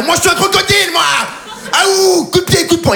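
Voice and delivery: crocodile voice. Acted. Comic describing his jogging logo, high cartoon crocodile voice. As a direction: play the logo as a cocky little fighter.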